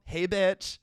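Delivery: giggling through the greeting; laughing Supergirl quote. Retold or imitated. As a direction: crack up mid-impression. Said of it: "seventeen-year-old cool Supergirl".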